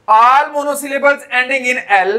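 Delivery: slow, deliberate reading of the rule; slow dictation voice. Shown as a demonstration. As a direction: dictate the rule slowly to the class. Teacher reads rule aloud.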